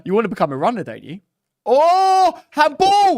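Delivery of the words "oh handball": high, loud outcry for a foul; real excited match-day shout; shouted appeal. Real, not acted. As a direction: yell at the referee. Appealing for handball during live match.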